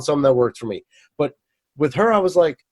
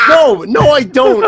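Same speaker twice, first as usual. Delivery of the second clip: high laughing protest; flustered laugh; 9 semitones higher, 5 dB louder, slower than usual. Real, not acted. Caught out by friend's joke, laughing.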